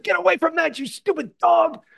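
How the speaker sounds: very high-pitched, frantic re-enacted yell; yelling at dog. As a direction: act out scolding a dog in a high, strained shout. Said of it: "I yell at him".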